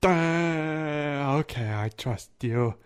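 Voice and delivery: lightly voiced slow-witted oaf; hesitant, trusting giant with a long opening drawl; simple giant. Plays timid giant Mimsy.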